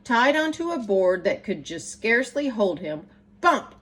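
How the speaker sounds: put-on lively rhyming read-aloud for children; bouncy, sing-song story reading; storybook narration. A narrator's reading. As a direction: read it like bedtime verse to kids. Reads picture book aloud.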